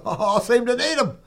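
laughing. Real, not acted. Laughs while saying it.

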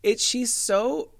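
high, slow hint of Lisa's voice; lightly imitating her. Podcaster briefly mimics Lisa's odd voice, high and slow. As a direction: slip partway into her odd accent. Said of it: "listened to her voice".

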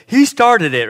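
put-on high, loud childish protest; bickering kid. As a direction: whine it like a kid blaming his brother. Voicing his boys bickering.

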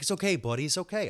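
gentle, lilting reassurance; soothing the dog. Retold or imitated. Soothing the dog, not yelling.

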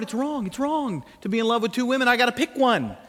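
acted-out inner turmoil; torn lover. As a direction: fret over an impossible choice.

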